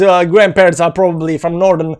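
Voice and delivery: usual speaking voice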